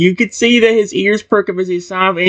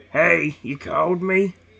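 deep, low voice, quieter; 8 dB quieter than usual. Reading the reply from a voice in the bushes: deep voice. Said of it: "And a deep voice say".

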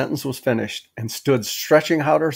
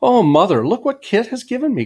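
very high-pitched crying out; 9 semitones higher than usual. Judith calls to her mother about Kit's gift, crying out. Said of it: "cried Judith".

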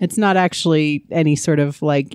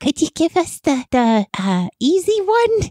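put-on whispered character voice, higher; 12 semitones higher than usual. Asking for the easy riddle again, in character: Harley Quinn whisper. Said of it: "I just wanna know what a whisper from Harley Quinn sounds like".

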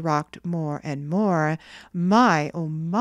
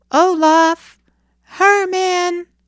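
very loud, high, drawn-out yell; 13 semitones higher, 9 dB louder than usual. Narrator voices a boy alone on the empty wharf, shouting names. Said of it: "Johnny Blossom shouted".

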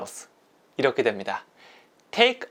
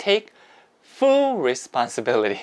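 the word full strongly stressed; 4 semitones lower than usual. Teaching the phrase take full responsibility, with stress on full. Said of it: "조금 강세 줘봤는데요".

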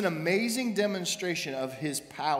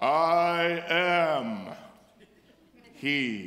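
"I" held long and drawn out; 3 semitones lower, 3 dB louder than usual. Retelling Jesus's answer in the story, doing a Charlton Heston impression. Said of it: "I'm doing my best Charlton Heston here".

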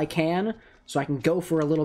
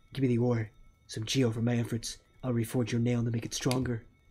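low, soft, forced put-on deep voice; 6 semitones lower, 6 dB quieter than usual. Reading the blacksmith's lines in a game: deep voice. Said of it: "I am trying to do a deep voice".

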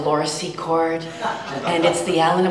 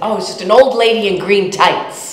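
put-on loud, child's voice; 4 semitones higher, 7 dB louder than usual. Retelling what a little kid in the front row said on opening night, really loudly. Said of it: "in a really loud voice".

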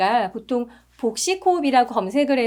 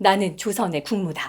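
deepest possible voice, sunk to the floor of its range; 4 semitones lower than usual. Demonstrating a second vocal example, in the lowest possible deep voice. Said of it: "제가 낼 수 있는 최대의 저음으로 냈어요".

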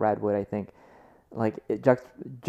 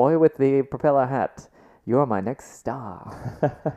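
put-on old-fashioned, old-timey 1920s voice; 3 semitones higher than usual. Imagining a director calling out across the set to a boy, in a 1920s voice. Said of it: "like in a 1920s voice".

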